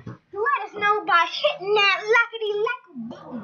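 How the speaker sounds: bouncy, slow and playful; playful sing-song. Acted. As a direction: sing it out like a silly jingle. Silly playful outro line.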